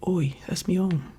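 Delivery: lightly put-on London accent, slipping toward Australian; attempted London accent. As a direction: try a Londoner's accent and miss slightly. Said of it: "Did I do Australian?".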